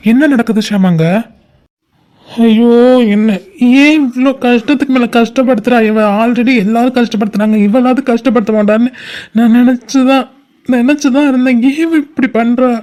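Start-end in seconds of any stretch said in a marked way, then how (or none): 2.3-12.7 upset, on the verge of crying; tearful. Acted. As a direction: let the hurt weep through the words. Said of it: "ஏன்டா அலற?".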